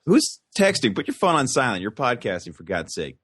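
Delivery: high mock stern scold. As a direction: tell them off, hammed up. Scolding someone's phone going off.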